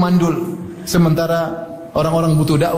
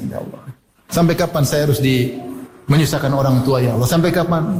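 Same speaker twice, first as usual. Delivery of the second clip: mock crying prayer; 5 semitones lower than usual.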